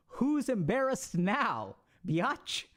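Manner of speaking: mock-triumphant slow tease; playful gloat. Real, not acted. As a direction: savor it, drawn out and cheeky. Teasing triumph over flustered listener.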